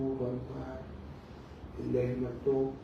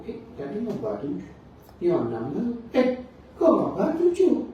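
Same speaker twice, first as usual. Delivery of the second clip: urgent questioning; 8 semitones higher, 7 dB louder than usual. Acted. Prophet pressing the silent angel, anxious rising questions. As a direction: pitch climbing much higher and louder to an anxious cry.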